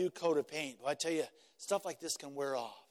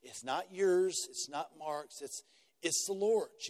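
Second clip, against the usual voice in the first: a lightly voiced loving pastor; gentle pastoral reminder; 4 semitones lower than usual. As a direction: remind them kindly who owns the church. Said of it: "come alongside them and say".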